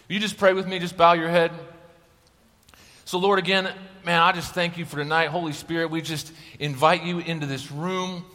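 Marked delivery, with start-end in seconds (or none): 3.1-8.3 softer, earnest prayer voice; a gentle, hushed plea to the Holy Spirit; opening prayer. Acted. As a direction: pray over the room quietly. Leads the room in prayer.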